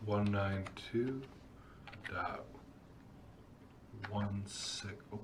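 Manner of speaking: slow word-by-word dictation while typing; dictating. Real, not acted. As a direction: read the command out piece by piece. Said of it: "we're gonna type this command".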